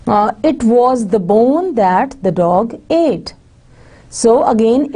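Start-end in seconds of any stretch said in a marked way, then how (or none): 0.4-3.3 slow, careful reading of the example sentence. Shown as a demonstration. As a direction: read the example slowly, word by word. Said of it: "if you want to emphasize the bone".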